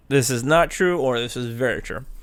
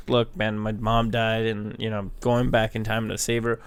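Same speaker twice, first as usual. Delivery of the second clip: mock emotionless read; 4 semitones lower, 4 dB quieter than usual. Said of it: "No emotion".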